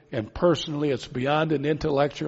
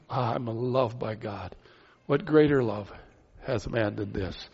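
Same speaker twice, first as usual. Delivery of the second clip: awed tender musing; 4 semitones lower, 4 dB quieter than usual. Pretend. Believer marvelling at God's love, soft and low. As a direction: savour being loved by God.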